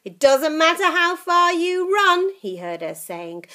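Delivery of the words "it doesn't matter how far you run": higher, louder witch threat; threatening old witch. Acted. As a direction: call after him menacingly. Grandma threatening.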